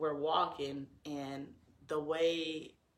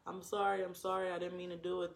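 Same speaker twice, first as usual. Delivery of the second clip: mock wishy-washy apology; 3 semitones higher, faster than usual. Boyfriend cradling her after the hit, mock wishy-washy sorry. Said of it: "pure wishy-washy".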